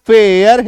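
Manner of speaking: फेयर with a long ए, then यर; demonstrated pronunciation. Shown as a demonstration. Teacher showing the vowel sign plus यर, demonstrated pronunciation. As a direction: stretch फेयर slowly and clearly. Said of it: "एकार की मात्रा यर".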